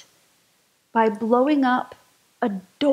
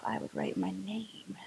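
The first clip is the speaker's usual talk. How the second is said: quiet confession through a laugh; laughing softly; 2 semitones lower, 16 dB quieter than usual. Shown as a demonstration. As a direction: admit it with a sheepish laugh. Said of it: "I kinda thought to myself".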